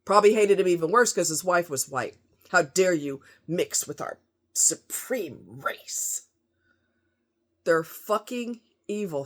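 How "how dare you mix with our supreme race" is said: mock racist coworker. Voicing racist coworkers mockingly.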